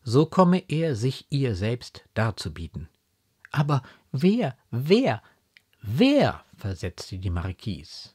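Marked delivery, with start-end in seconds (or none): 3.5-6.4 urgent, higher and louder, each question rising and falling sharply; insistent questioning. A narrator's reading. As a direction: press for the name, more forcefully each time. Marquise drängt auf den Namen. (drängend nachfragend)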